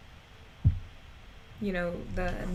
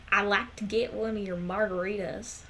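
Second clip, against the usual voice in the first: imitating an older Texan ordering, Southern accent; lightly put-on Southern twang; mock Southern restaurant customer. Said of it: "the people with accents when they try to speak Spanish".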